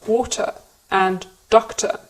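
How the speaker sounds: "water" and "doctor" ending in uh, no R; British non-rhotic endings. Shown as a demonstration. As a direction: drop the final R in "water" and "doctor". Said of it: "we don't pronounce the R sound".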